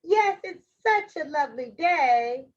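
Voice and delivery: lightly voiced friendly little girl; a hint of a chirpy girl; Little Red Riding Hood. Girl agrees with the wolf, lightly voiced little girl. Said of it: "said Red Riding Hood".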